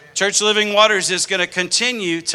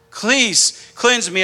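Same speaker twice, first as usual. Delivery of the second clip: slow plea pitched higher with more force; urgent plea; 4 semitones higher, much slower than usual. Pretend. Preacher praying to Jesus again, higher urgent plea. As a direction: lift the prayer up, pressing harder. Second take of repeated plea.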